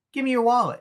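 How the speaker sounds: mock Joker ordering. Joker demanding Charlie's wallet, mock menace. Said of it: "The Joker goes".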